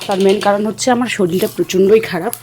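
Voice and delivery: short of breath while talking; labored breath between phrases; shallow breathing. Real, not acted. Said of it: "নিঃশ্বাস নিতে কষ্ট হচ্ছে".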